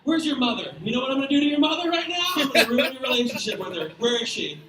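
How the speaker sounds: loud angry rant, building; mock gamer rage. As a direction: yell at the kid like a furious gamer. Acted rant at gamer kid.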